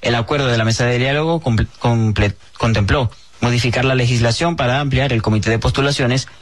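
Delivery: steady, measured news-reader delivery; even-paced bulletin reading. Acted. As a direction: read it out as a formal radio news report. Host reads the news item.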